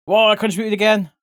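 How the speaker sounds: whoa, pleased with herself; excited whoa. Real, not acted. Streamer surprised she contributed again, excited.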